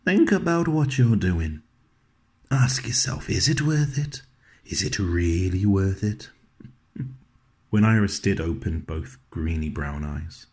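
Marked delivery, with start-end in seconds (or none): 0.0-6.3 hammed-up stern warning, pitched much higher; a lightly voiced tiny tyrant telling the nurse off; imagined baby's warning. Father voicing his baby daughter's stern warning, playfully mock-stern. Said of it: "Her way of saying".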